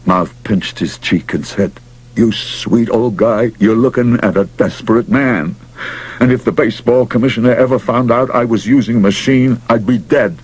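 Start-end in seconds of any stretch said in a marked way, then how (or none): 2.2-10.4 gruff pushy manager. Acted. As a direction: push hard like a desperate manager. Mouth pleading, desperate.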